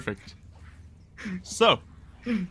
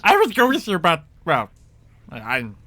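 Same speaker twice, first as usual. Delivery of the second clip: goblin chief; 8 semitones higher than usual. Acted. Goblin chief sends the party to town, urgent then sheepish.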